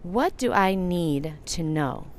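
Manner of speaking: slow, soft and inward; slow meditative. Shown as a demonstration. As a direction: ask it gently, as in meditation. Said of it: "one of my favorite meditations".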